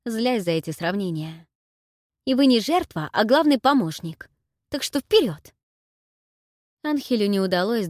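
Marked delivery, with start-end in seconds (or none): 2.2-5.5 urging. Acted. Heroine urges him forward.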